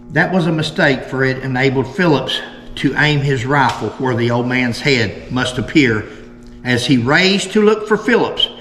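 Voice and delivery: put-on measured old-account narration; reading aloud. Host reads the last article on Jim's killing, measured narration. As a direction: read it out in deliberate, separated phrases.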